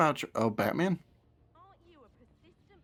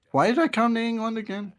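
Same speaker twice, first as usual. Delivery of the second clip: high, louder mock lament; hammed-up regret, pitched way up; exasperated bystander; 11 semitones higher, 5 dB louder than usual. Bystander watching the British couple, mock exasperation.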